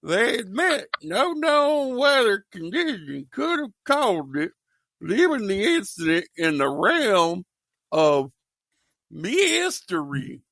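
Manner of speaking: put-on old broadcast voice. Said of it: "you sounded just like Dad".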